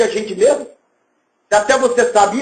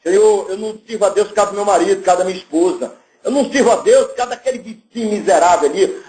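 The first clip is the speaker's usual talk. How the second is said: hint of a whining believer making excuses; a light whine, blaming husband and neighbour; mock excuse; 4 semitones lower, faster than usual. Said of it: "tem gente que fala assim". (imitação leve de um crente se desculpando)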